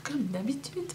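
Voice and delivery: with hiccups; hiccuping. Real, not acted. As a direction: talk through the hiccups. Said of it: "J'ai le hoquet".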